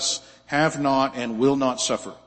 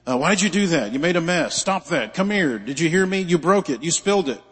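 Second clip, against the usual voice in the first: frazzled scolding mom; 2 semitones higher than usual. Retold or imitated. Preacher imitating a mother nagging her children, mock scolding. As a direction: rattle off mild mock scolding like a fed-up mother. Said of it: "mom loses her temper".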